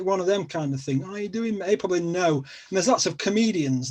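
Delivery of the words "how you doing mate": higher-pitched mock Scouse; quick impression of a Scouse accent; Liverpool accent. Shown as a demonstration. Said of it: "the whole Scouse accent".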